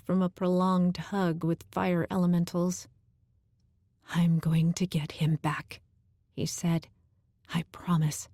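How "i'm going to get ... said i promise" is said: whispered promise. Acted.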